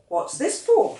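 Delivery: startled high question; puzzled father, caught off guard; a father surprised by a banknote. Acted.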